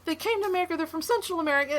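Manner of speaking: mock angry retort. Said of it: "I'm like".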